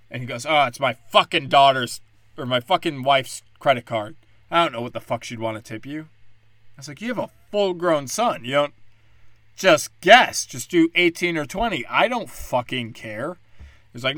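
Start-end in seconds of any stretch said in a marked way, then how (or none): 0.5-6.0 loud, cursing outburst; angry father. Retold or imitated. Dad snapping at the server over the card, loud and irritated. 7.0-13.4 higher, louder, fed up; exasperated snap. Retold or imitated. Server losing patience with a customer, loud and exasperated.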